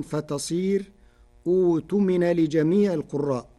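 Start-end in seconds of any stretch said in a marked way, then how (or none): 1.5-2.3 أوتمن begun with hamzat wasl and waw; starting reading with waw. Shown as a demonstration. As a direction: begin أوتمن as utumin. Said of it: "إبدال المحققة واوا". (أوتمن عند الابتداء)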